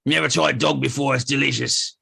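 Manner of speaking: dim pompous cartoon cop. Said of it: "this guy's like".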